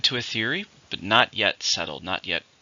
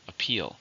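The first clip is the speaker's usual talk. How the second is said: Appeal, with the weight on "peal"; stress on the second syllable; 4 dB quieter than usual. Shown as a demonstration. Teacher modelling the word for learners, stress on "peal". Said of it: "Two, stress on the second".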